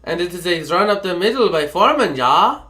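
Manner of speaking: mock-German play-by-play; lilting attempt at a German accent. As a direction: call the play in a badly faked German accent. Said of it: "I tried going for German".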